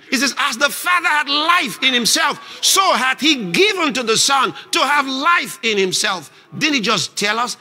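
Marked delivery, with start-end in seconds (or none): 0.4-6.3 raised, emphatic preacher's declaration; Jesus. Acted. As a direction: declare it boldly, pitched higher. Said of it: "We gotta talk like Jesus".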